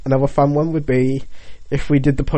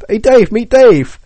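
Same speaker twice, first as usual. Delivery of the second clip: slow proud introduction; 6 semitones higher, 5 dB louder, much slower than usual. Pretend. Introducing child slowly.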